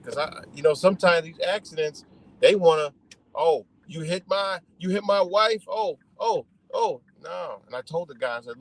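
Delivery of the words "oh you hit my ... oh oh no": mock accusation. Acts out angry crash victim.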